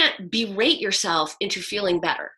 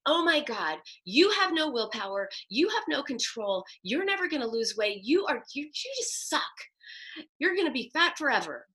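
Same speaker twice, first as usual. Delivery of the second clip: mean self-talk; 4 semitones higher than usual. Retold or imitated. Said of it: "in a really mean voice".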